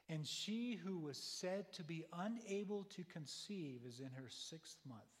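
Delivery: slow, drawn-out reading; slow emphasis. Acted. Preacher savoring the angel's promise, slow and drawn out. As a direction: stretch every word to savor it.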